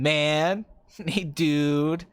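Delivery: low, drawn-out mock tough guy; imitation of an imitation, lazily drawn out; Norm Macdonald's Harvey Keitel. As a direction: stretch each word out low. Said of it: "I love Norm Macdonald's impression of him".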